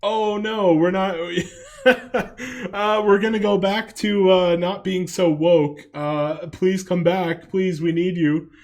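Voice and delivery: lightly voiced grovelling corporation, slow in places; pleading company. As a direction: ham up a desperate brand begging customers back. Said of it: "And then Gillette said".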